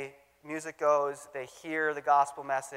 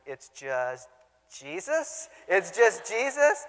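rising hopeful question, higher; hopeful guess; 3 semitones higher, much slower than usual. Retold or imitated. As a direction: ask eagerly, hoping for Jesus. Pastor hopefully guessing the answer.

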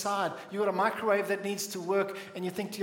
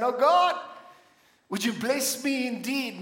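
higher, louder cry out to God; fervent cry to God; 3 semitones higher, 3 dB louder than usual. Acted. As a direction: call out to God. Acting Jabez crying out.

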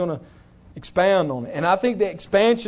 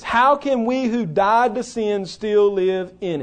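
slow read quote; slower than usual. Retold or imitated. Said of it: "he says".

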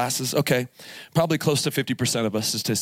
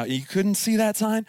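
slow, higher, disbelieving question; can't believe what he's hearing; incredulous; 8 semitones higher than usual. Retold or imitated. Dad asking his daughter in disbelief about the sign. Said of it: "But I was like".

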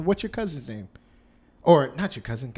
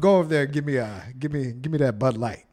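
creepy uncle; 7 dB louder than usual. Acted. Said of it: "You sound like that creepy uncle".

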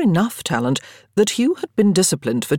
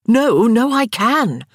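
higher, louder tipsy insisting; drunken insistence; 7 semitones higher, 5 dB louder, slower than usual. A narrator's reading. Daniel insisting drunkenly to Marcus, loud. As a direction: refuse to be talked down. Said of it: "Daniel insisted".

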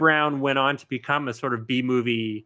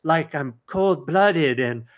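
whiny victim voice; 3 semitones higher than usual. Retold or imitated. Voicing the student in the movie.

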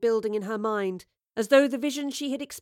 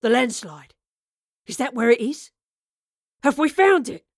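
loud, eager questions, rising in intensity; excited gabbling; 8 dB louder than usual. A narrator's reading. Gang members realising the treasure is found, excited gabbling. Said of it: "The excited gabbling of the group".

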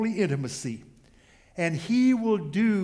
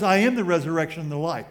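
proclaiming; 7 dB louder, faster than usual. Retold or imitated. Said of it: "He says".

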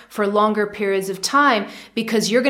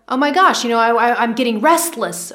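restless; 3 dB louder than usual. Retold or imitated. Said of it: "I was feeling myself getting restless".

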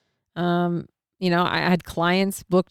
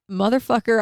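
frustrated curse; 5 semitones higher, 4 dB louder than usual. Retold or imitated. All these signs, missed plane.

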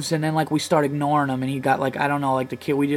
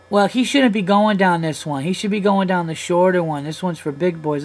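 lightly mimicked know-it-all child, pitched up; bossy four-year-old; 4 semitones higher than usual. Four-year-old blocking the slide, mock bossy. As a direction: imitate a little kid laying down rules. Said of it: "then the kid blocks the passageway".

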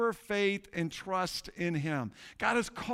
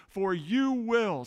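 "you will" louder and slower, held for the church to echo; call for response; 2 semitones higher, 4 dB louder, slower than usual. Shown as a demonstration. Pastor prompting the congregation to repeat scripture, loud and slow. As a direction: draw out "you will" so they join in. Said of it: "say "you will" with me".

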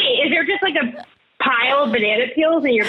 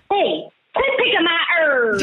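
higher-pitched mock telling-off; angry herb owner; 4 semitones higher than usual. Host corrects her impression of the herb owner, mock scolding. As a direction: call out like a cross neighbour. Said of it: "No, it was like".

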